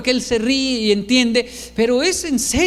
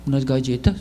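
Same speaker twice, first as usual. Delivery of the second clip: low, rising admission; mock-sheepish teenager; sheepish son; 9 semitones lower than usual. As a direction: own up reluctantly, pitched low. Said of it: "Y se ríe un poco y dice".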